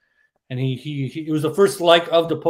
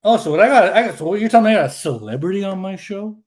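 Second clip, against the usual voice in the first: louder, higher mock amazement; mock surprise; 3 semitones higher, 5 dB louder than usual. Real, not acted. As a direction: act amazed at the celebrity. Mock amazement at celebrity guest.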